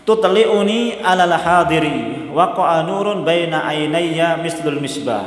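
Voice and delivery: slow, measured Arabic recitation. Acted. Preacher quoting the Arabic hadith text in a slow recitation. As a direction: lay out each Arabic word slowly and deliberately.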